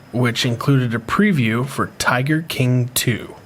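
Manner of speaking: measured news-reader read. Acted. Reads news article aloud.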